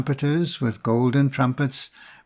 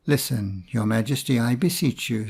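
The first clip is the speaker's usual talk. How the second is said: grave; 3 semitones lower than usual. Acted. Priest gravely warning the king, low and solemn. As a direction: lower your voice, solemn and earnest. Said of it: "said the priest gravely".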